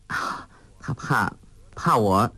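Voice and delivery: slow, half-whispered giggle; shy giggle. A narrator's reading. Girl teasing her friend about a secret, slow whispered giggle. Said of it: "穆念慈笑道".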